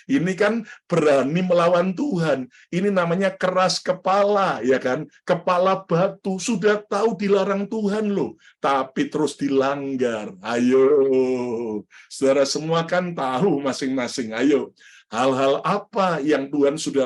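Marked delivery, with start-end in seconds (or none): none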